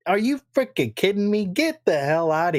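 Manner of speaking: outraged, are you kidding me; exasperated rant. Real, not acted. Ranting at PlayStation fans, exasperated. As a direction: voice jumps high in disbelief.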